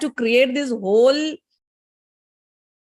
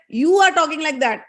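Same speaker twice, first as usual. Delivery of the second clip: higher, indignant retort; quarrelling husband; 5 semitones higher, 4 dB louder than usual. Acted. Husband fighting back at his wife, indignant. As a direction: fire back in acted anger. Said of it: "husband and wife started fighting with each other".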